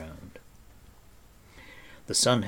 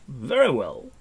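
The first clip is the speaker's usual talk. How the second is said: loud, high-pitched vow; resolute declaration; 6 semitones higher, 7 dB louder than usual. A narrator's reading. Gwydion resolves to find her.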